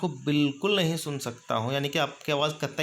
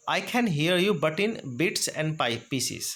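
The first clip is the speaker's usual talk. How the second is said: slow, careful delivery; slow model phrase; 2 semitones higher, much slower than usual. Shown as a demonstration. Teacher demonstrating a broken-signal phrase to students, slow. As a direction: spell it out for learners. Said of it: "इसका example हो सकता है".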